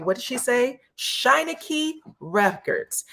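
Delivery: slow, high, mumbled "Shineke Records" in a far-off voice; mumbled label name. Retold or imitated. Imitating Kiki mumbling her new label's name to the family. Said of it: "nobody in the house knew what the hell she said".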